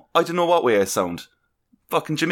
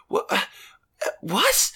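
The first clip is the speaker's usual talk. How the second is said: baffled what; 9 semitones higher, slower than usual. Retold or imitated. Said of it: "just kinda going".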